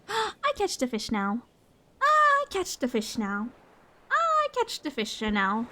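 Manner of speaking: lightly voiced cartoon dog; a hint of cartoon puppy voice. Cartoon voice while fishing.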